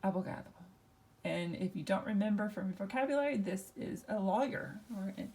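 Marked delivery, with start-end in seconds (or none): 0.0-0.4 Spanish a-bo-GA-do for abogado; stress on next-to-last syllable. Shown as a demonstration. Teacher repeats the word for class, abogado stressed on "ga". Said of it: "we would pronounce this".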